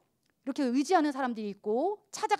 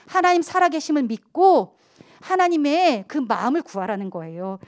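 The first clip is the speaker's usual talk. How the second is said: ordinary talk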